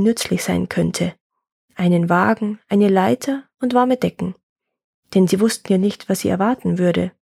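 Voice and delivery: measured folk-tale narration; story narration. A narrator's reading. Telling a woodcutter's folk tale, story narration. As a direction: read it as a tale for listeners.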